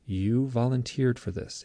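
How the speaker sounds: slow, deliberate retold pronouncement; solemn alien beings. Beings reminding the abductee, solemn. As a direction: state it evenly, drawing the words out. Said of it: "It's like".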